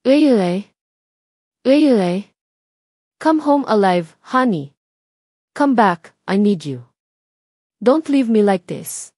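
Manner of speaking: drawn-out pleading, acted grief; crying loudly. A narrator's reading. Husband calling to his dead wife, acted crying plea. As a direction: plead slowly, calling out in mock-earnest anguish. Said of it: "Steve was crying so loudly".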